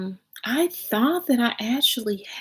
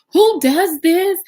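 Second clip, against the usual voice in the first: outraged question; 10 semitones higher, 5 dB louder, slower than usual. Retold or imitated.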